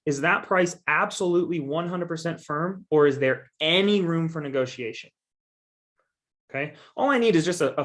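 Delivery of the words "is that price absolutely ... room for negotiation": deliberate stress on "absolutely one hundred percent firm" and "any"; stressed key words. Shown as a demonstration. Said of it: "I put the emphasis on those words".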